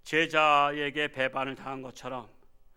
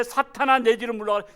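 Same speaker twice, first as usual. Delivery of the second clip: commanding rebuke; 5 semitones higher, 7 dB louder than usual. Acted. Quoting verse 23 rebuke.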